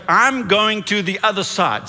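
a confident rallying declaration; bold declaration. Shown as a demonstration. Preacher leading the church to say it out loud, bold declaration. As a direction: say it out loud, firm and emphatic. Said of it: "dare you to say it out loud".

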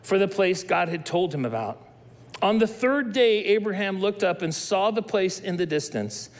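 calm, measured Bible reading; scripture reading. Acted. Reads Genesis 22 aloud.

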